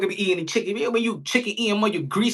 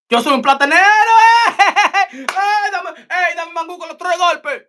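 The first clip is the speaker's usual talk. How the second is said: 1 playful Dominican voice; 9 semitones higher, 6 dB louder than usual. Retold or imitated. Mocking a Dominican who is called plátano.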